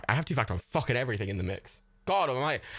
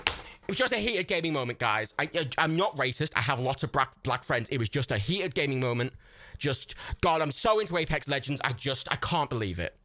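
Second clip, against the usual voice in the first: mock streamer excuse. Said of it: "British one".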